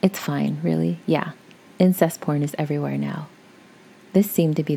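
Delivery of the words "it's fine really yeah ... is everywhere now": caring tone. Retold or imitated. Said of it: "in a caring tone".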